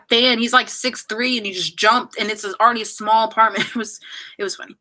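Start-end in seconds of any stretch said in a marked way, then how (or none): 3.7-4.7 breathy laugh through the words, quick; giggling as she tells it. Real, not acted. Streamer laughing at her friend hitting the fan.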